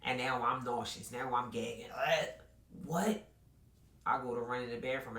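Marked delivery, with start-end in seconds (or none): 1.9-3.3 high, rising "what?"; stunned disbelief; shocked. Retold or imitated. Shocked reaction.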